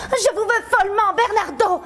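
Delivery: overplayed swooning lover; mock tearful plea to a reluctant suitor; hammed-up passion. Acted romantic declaration in skit.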